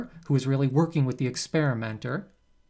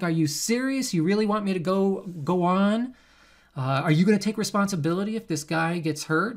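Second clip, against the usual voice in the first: distressed subject; 4 semitones higher than usual. Retold or imitated. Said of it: "he's like".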